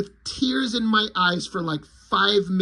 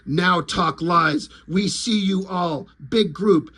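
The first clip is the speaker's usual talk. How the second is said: slow broken alien demand; a dim alien giving orders, choppy; alien lizard; 2 semitones lower, slower than usual. Retold or imitated. Lizard interrogating Popo, slow broken speech. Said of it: "So Lizard says".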